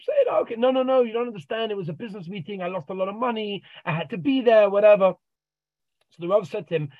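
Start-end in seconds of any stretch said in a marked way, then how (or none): 0.1-5.1 a man insisting the rabbi doesn't understand; protesting man. Retold or imitated. Man insisting to the Rav he lost money, high protest.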